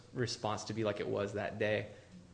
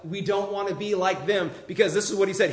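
louder and higher, pressing the point; rising preacher shout; 6 semitones higher, 8 dB louder than usual. Real, not acted. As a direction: preach it out with force. Preacher rising to full force.

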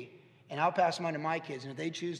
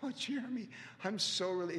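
relieved exclaim; 5 semitones higher than usual. Retold or imitated. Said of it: "I was like".

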